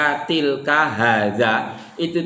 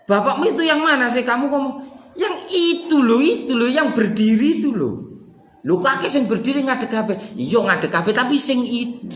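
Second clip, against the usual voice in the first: higher voice pressing on itu; emphatic pointing; 7 semitones higher than usual. Shown as a demonstration. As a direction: insist on that one over there. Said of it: "penekanan suara itulah".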